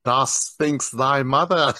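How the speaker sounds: put-on slow, theatrical old-English insult; mock posh insult. Joking host answers with a slow, mock-sophisticated insult. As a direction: ham up a sophisticated jab. Mocking British insult style.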